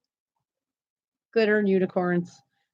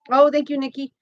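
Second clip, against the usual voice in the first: normal talking voice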